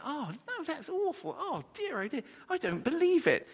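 high, aghast cries of disbelief, rising to loud; horrified dismay. Retold or imitated. Retelling hearing shocking news, high horrified dismay. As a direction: gasp it out like terrible news just hit you. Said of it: "I was going".

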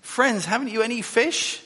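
high, loud call across the water; high hailing call. Acted. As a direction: call out to the boat from the shore. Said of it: "He called out to them".

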